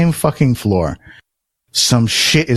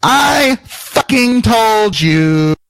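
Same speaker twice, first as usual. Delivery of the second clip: calling across a lot; 10 semitones higher than usual. Retold or imitated. Twin yelling from across the lot that he told you, mock holler. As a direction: imitate someone crowing from a distance, pitched way up. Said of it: "from across the lot".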